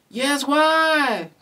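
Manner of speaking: loud, high call from the Dingoes. A narrator's reading. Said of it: "called the Dingoes".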